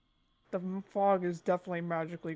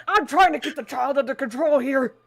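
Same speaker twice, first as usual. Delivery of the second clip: laughing; 6 semitones higher, 11 dB louder than usual. Real, not acted. Laughing while wrangling the party.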